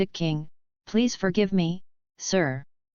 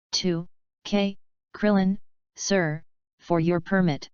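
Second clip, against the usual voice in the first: trembling voice. Acted. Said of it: "with a trembling voice, a little flustered".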